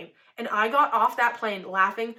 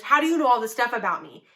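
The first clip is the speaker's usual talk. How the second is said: mildly louder retold outburst; fervent; 4 dB louder, faster than usual. Panicking brother typing to a stranger in chat, fervent. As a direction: voice a panicking chat message in all caps. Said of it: "he says in the chat so fervently".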